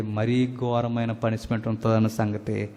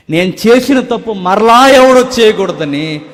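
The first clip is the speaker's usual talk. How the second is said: impassioned vow; 9 semitones higher, 12 dB louder than usual. Acted.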